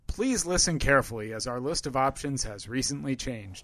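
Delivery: calm recorded menu announcement; phone menu voice. Retold or imitated. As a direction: read it like an automated hold message. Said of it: "the guy who says".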